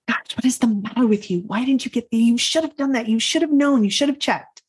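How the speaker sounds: acted-out inner telling-off; mock self-scolding. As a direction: scold yourself, pitch climbing with each reproach. Berating herself at night.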